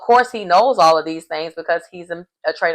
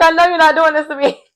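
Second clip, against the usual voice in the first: high-pitched mock dismay; mock disbelief; 8 semitones higher, 4 dB louder, faster than usual. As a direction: act stunned and betrayed, pitched high. Acting Paul's shocked disbelief.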